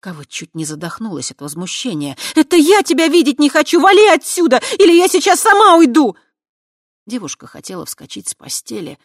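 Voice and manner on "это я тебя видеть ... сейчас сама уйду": high, loud enraged yelling; furious high yell back; furious shout. Acted. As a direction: scream him out of the room.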